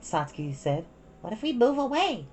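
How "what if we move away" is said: put-on high, pleading child voice; two sisters arguing, high; young girls' voices. A narrator's reading.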